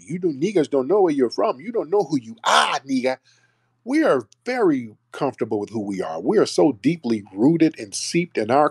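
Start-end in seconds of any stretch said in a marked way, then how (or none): 0.0-3.2 higher mocking voice of the people he criticizes; imitating the taunting critics; mock quote of them. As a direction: parody their taunt, higher. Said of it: "talking about".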